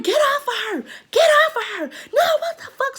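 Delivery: high-pitched, loud yell imitating the rescuer; shrieked order, imitating a friend stepping in; retold scream. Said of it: "They screaming".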